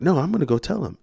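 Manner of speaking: high-pitched defiant mom, not shouted; imitated indignation. Furious mom refusing to calm down, imitated indignation. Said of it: "She's furious".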